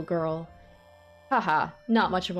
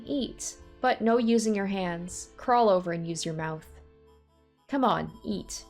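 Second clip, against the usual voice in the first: sing-song taunting; 3 semitones higher than usual. Acted. Amy feeding him like a dog.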